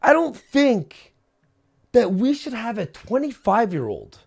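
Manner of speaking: high, loud and defiant; rising up loud against the doubters; defiant outburst. Real, not acted. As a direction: throw it back at the critics. Defiant rant about the critics.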